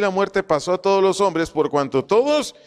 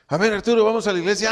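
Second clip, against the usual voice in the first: lightly acted, higher-pitched invitation; 5 semitones higher, much faster than usual. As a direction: call a friend along, slightly hammed-up. (invitación actuada, tono más agudo)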